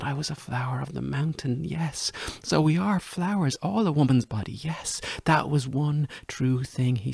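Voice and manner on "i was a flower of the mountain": hushed, tender memory of his words; soft recollection. Retold or imitated. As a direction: say it softly, as if remembering. Lover's words, softly recalled.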